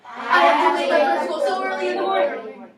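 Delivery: fast and loud, no expression; speedster reading. Shown as a demonstration. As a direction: rush it out as fast as possible. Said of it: "Can we read it like speedsters?".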